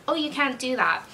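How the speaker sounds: lightly put-on sweet service voice; a touch of fake, polite sweetness; sweet customer service. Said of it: "Like, really sweet".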